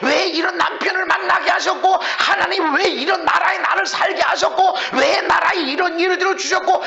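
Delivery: 음을 올려 몰아치는 불평; 왜냐고 하나님께 줄줄이 따지기. Acted. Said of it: "이러고 있었다 그러면 하나님을 경멸하고". (불만을 늘어놓는 높은 목소리 흉내)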